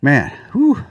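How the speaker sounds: breathless, puffing after effort; out of breath. Real, not acted. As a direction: talk while catching your breath. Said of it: "I'm out of breath".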